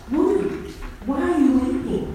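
Woman rising high and searching; the gardener's question. Acted. The gardener asking Mary at the tomb, lilting and questioning. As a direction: ask it lifting sharply on Woman. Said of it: "He asked me the same thing".

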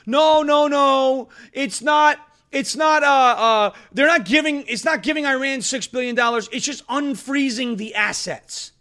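high, loud mocking protest; high-pitched mock denial; mocking leftists. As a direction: whine it like a flustered protester. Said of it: "you saw leftists going".

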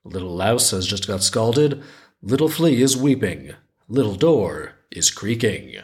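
measured folktale reading with lilting rises; story narration. A narrator's reading. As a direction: read it like a children's tale, lingering on phrase ends. Reads the folktale aloud.

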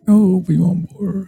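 high-pitched caricature of a protester; mimicking the other side. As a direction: chant it high and drawn out. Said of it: "The other side is like".

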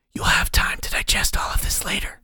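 eerie unvoiced whisper of a hidden mentor; whispering inner voice. The mysterious voice counsels Ank, eerie whisper. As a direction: breathe it like a voice inside his skull.

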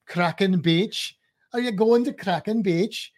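light Welsh lilt on Kraken Beach; Welsh accent. Shown as a demonstration. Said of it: "you gotta say it with a Welsh accent".

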